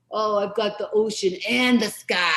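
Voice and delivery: lightly mocking, boastful Blue; self-absorbed. Blue brushing off a red clown nose, self-absorbed. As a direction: show off, as if bragging about your territory. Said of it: "so self-absorbed".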